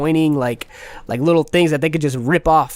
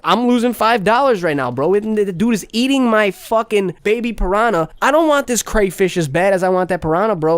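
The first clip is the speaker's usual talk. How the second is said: upset venting; 5 semitones higher than usual. Retold or imitated. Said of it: "That's the exact situation that I thought in my head".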